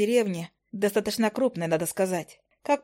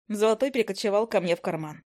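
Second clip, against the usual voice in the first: ordinary delivery, nothing marked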